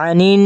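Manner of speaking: "আনিন" with the last n hummed long; chanted "আনিন" with a sustained n; ghunnah nasal hold. Shown as a demonstration. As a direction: linger nasally on the end of "আনিন". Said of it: "গুণা করে পড়ে নেবেন".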